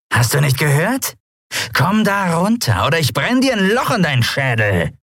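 threatening pirate woman, lightly voiced; pirate threatening to burn a hole in his skull; menacing pirate.

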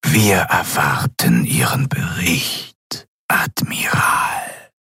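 a powerful figure who never needs to raise his voice; cold whispering governor. A narrator's reading. The governor demands the admiral's report, cold whisper.

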